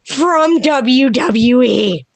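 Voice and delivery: slow, drawn-out excited reveal; retold thrilled announcement. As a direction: re-enact overwhelmed excitement, stretching each word. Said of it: "And I'm so excited".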